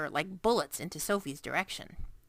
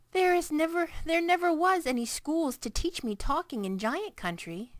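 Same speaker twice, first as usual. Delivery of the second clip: sad giant; 9 semitones higher than usual. A narrator's reading. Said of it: "said sadly".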